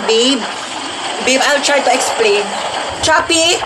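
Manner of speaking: shouting to babe on the coaster; shouting over wind. Acted. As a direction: yell into the phone over the ride. Yelling over roller coaster.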